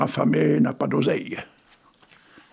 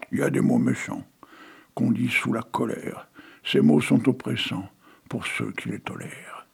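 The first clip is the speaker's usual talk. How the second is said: measured, lilting recital of a poem; poem reading. Acted. Reads the poem Les mots.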